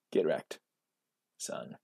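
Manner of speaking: soft laughing gloat. Real, not acted. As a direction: chuckle it out under the breath. Gloating at opponent's misplay.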